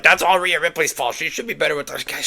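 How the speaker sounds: high-pitched imitation of nitpicking fans; mock whiny complainer. Mimicking complaining online fans.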